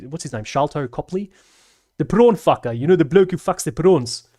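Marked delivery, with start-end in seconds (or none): 2.0-4.3 loud, higher burst of recognition; excited. Real, not acted. Recalling the actor's famous role for chat, loud and high. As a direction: blurt it out as it comes to you.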